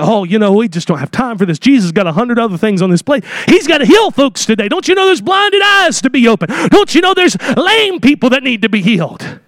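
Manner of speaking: mock impatient disciple, rising on "blinded eyes"; lightly acted brush-off; vehement disciples. Disciples arguing the kids away, a touch of vehemence. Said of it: "disciples were very vehement in their argument".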